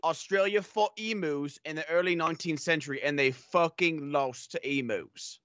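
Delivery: broad, put-on Aussie accent; Australian accent. Host doing a requested impression, in a hammed-up Australian accent. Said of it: "I'm doing this accent anyways".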